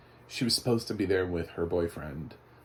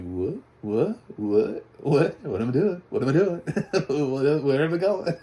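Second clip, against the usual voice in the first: rising, building, ever more baffled questions; mock bewilderment; 6 semitones higher, 6 dB louder than usual. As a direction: start puzzled, end high, loud and laughing. Mimics film's repeated twists, bewildered.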